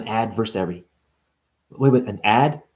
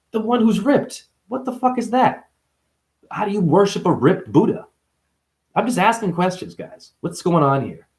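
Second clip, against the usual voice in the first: indignant outburst; 7 semitones higher than usual. Acted. Outraged mock questioning.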